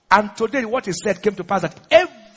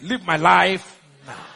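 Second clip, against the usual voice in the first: slow, lowered order; measured command; 4 semitones lower, slower than usual. Shown as a demonstration. Preacher ordering unproductivity out, slow low command. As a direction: draw each word out low.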